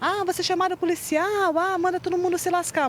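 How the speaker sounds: put-on frenzied yell, high and out of control. Retelling what a neighbor shouted when the police arrived: imitating someone shouting out of control. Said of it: "nós escutamos ele gri-, gritando".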